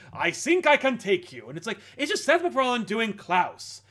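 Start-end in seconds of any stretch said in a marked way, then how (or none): 0.1-1.5 mock German scientist accent; hammy German accent. Podcaster imitating a film's German scientist, hammy German accent. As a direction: put on a hammy German accent, a bit louder. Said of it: "He's a German scientist".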